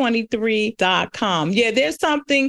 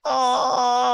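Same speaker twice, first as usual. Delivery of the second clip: touched. Real, not acted. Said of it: "I was like".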